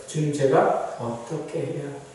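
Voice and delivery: hushed, low appeal; humble prayer. Acted. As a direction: let the question sink to a soft plea.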